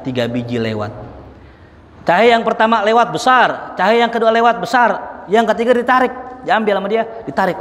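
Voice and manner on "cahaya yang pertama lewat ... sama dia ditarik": dramatic storytelling. A narrator's reading. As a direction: paint the dream with rising excitement. Dramatic retelling of the dream.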